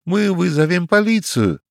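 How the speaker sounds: cry out. A narrator's reading. Young man with chicken on head, panicked cry. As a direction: yelp it in alarm. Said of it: "вскрикнул юноша".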